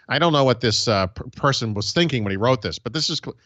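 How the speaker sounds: imitating a whiny complainer; light whiny nerd rant voice. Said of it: "he's got that perfect whiny voice".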